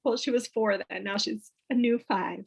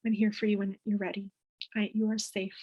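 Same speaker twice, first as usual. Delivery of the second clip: reassuring; 3 dB quieter than usual. Shown as a demonstration. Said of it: "the thing that I do always".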